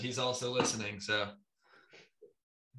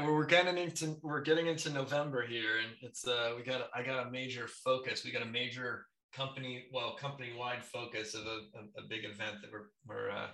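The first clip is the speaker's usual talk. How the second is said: echoey and far away. Real, not acted. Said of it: "you sound a little echoey and far away to me".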